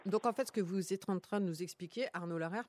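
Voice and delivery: talking through a mouthful; words round a bite of food; mouth full. Real, not acted. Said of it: "pardon, j'ai la bouche pleine".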